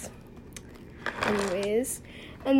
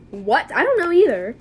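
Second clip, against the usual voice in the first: higher, louder exclamation of disbelief; exasperated disbelief; 3 semitones higher, 6 dB louder than usual. Retold or imitated. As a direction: protest loudly that you have no idea. Exclaiming over the boyfriend question.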